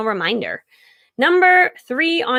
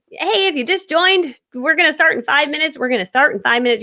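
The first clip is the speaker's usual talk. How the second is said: upbeat host voice; 5 semitones higher than usual. Shown as a demonstration. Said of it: "And you're just".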